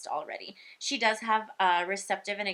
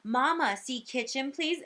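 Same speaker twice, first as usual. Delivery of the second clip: put-on higher child's request, rising on please; imitated little girl; 5 semitones higher than usual. Little girl repeating the request to her mom, childlike. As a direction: lightly voice a small girl asking politely. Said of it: "she looks at her mom and she says".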